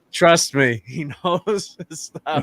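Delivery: imitated wife. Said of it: "Missus D's like".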